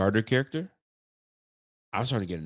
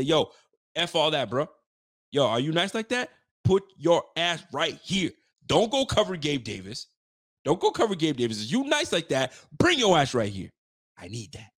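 raised-pitch swaggering dare, moderately loud; cocky trash talk; 6 semitones higher, 3 dB louder than usual. Pretend. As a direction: talk trash like a receiver calling out a corner. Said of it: "the type of dude that would say".

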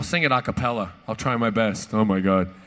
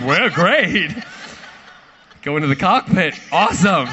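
louder, laughing "Well, great"; laughing delight; 3 semitones higher, 6 dB louder than usual. Retold or imitated. Hearing the captain is a fan, loud laughing delight. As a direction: gush through a laugh. Reacting to captain loving him.

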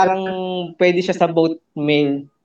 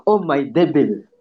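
slow, lower mock exclamation; Iruma catchphrase imitation; 5 semitones lower, much slower than usual. Quoting the line from Iruma to friends, slow imitation. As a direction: draw it out low, quoting a show. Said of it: "yung sa Iruma".

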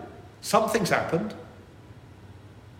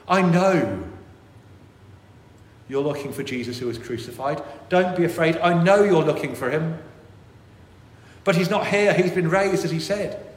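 reassuring angel; 3 semitones higher, 4 dB louder than usual. Acted. Angel speaks to the women.

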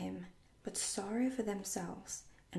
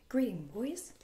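louder, ringing greeting; hearty cry; 3 semitones higher, 6 dB louder than usual. A narrator's reading. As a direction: hail the whole band. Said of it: "he cried".

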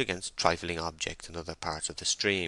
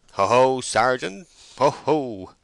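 loud, higher, slow teasing hoot; jeering exclamation; 6 semitones higher, 8 dB louder, slower than usual. A narrator's reading. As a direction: crow it mockingly at the sergeant. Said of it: "a subdued exclamation was heard inside the wall".

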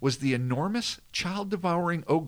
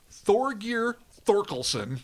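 Thorgir Thorkelson drawn out slowly and higher; savoring the name; 6 semitones higher, slower than usual. Shown as a demonstration. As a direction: relish every syllable of Thorgir Thorkelson. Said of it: "I love this name".

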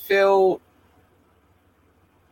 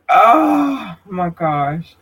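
long, drawn-out overwhelmed "oh"; overwhelmed groan; much slower than usual. Real, not acted. Speaker swamped by shout-outs everywhere, overwhelmed drawn-out groan. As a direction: stretch it out very slowly, overwhelmed.

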